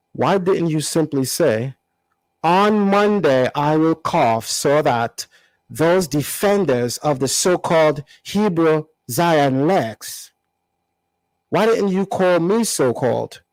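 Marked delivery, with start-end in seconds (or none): 2.4-10.3 slow mock African accent again; his accent. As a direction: quote him back in his accent. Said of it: "read it in his language".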